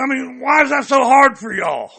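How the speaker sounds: real frustrated yell, pitch up; angry shout. Real, not acted. Angry caller yelling at the official over police criminals. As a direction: let it burst out at the official. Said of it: "I'm already upset".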